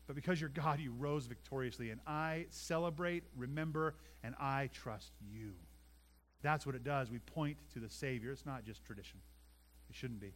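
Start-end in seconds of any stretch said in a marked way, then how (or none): 0.1-5.5 hushed prayer close. Pretend. Prayer ending softly.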